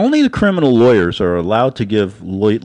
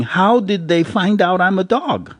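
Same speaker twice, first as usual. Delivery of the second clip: a lightly voiced cartoon dog, a bit higher; talking puppy; 6 semitones higher than usual. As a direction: give the puppy a small, puzzled voice. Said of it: "picture of a dog by a computer, a little puppy, going".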